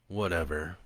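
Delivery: soft, low sullen mumble; mumbled. A narrator's reading. Teen muttering back to his stepdad, soft sullen mumble. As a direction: toss it off under your breath. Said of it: "Joe mumbled".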